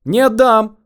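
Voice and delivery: high, loud wail of refusal. A narrator's reading. Man clutching his bundle as it is seized, wailing high. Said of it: "взвыл очкарик".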